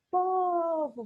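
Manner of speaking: PO agudo e alongado em "Povo", VO curto; sílaba forte chamada. Shown as a demonstration. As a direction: chame "Povo" esticando o PO para mostrar a tônica. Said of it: "vou chamar, não é". ("Povo" chamado, com PO mais agudo e longo)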